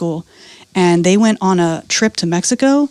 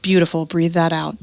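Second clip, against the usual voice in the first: soothing coaching; 4 semitones lower, 5 dB quieter than usual. Shown as a demonstration. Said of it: "when it's over, you go".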